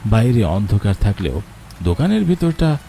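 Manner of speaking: calm, measured storyteller voice; wistful story narration over music. A narrator's reading. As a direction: set the scene like a radio drama narrator.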